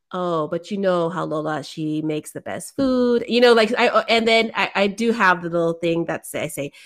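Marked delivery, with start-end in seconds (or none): 0.1-3.2 lightly imitated Filipino mom accent, slowing at the end; mom's accent. Teasing her mom to the kids, lightly put-on Filipino accent. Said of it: "I would say it in my mom's accent".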